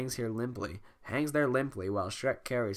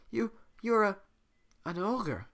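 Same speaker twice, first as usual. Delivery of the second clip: high princess voice; 9 semitones higher than usual. Acted. Retake of same line.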